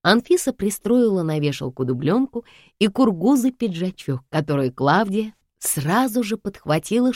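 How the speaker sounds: ordinary delivery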